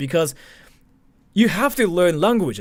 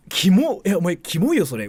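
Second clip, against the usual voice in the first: mock disgust; 4 semitones higher than usual.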